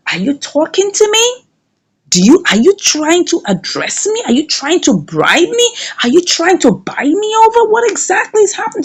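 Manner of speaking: acted affront, rising high questions; indignant questioning. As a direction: fire back questions, climbing in pitch. Acted indignant reply to bribe offer.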